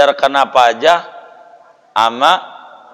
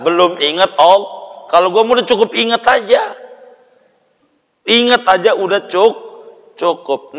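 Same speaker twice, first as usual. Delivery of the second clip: mocking; 4 semitones higher than usual. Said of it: "Ada juga yang kayak begini".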